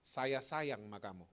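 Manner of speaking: slow, low declaration of love; calm, tender assurance; loving reassurance. Acted. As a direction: say it slowly and sincerely. Voices Jesus declaring his love.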